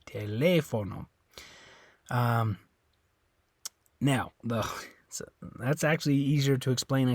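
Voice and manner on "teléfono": TELÉFONO as te-LEH-fo-no; TELÉFONO stressed on the accented E; stress on second syllable. Shown as a demonstration. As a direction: lean on the LE of TELÉFONO. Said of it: "up here it's on the E".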